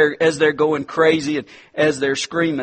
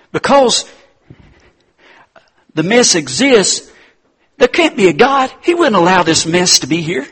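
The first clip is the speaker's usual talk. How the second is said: higher, mock-indignant retake of the skeptic; 3 semitones higher, 4 dB louder than usual. Shown as a demonstration. Preacher mimicking the skeptic's complaint, mock-indignant. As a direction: push it up as a scoffing doubter. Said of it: "Because there's a mess".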